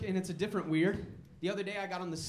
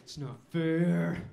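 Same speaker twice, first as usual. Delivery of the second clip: put-on whiny kid; 4 semitones lower, 3 dB louder, much slower than usual. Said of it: "He's down there".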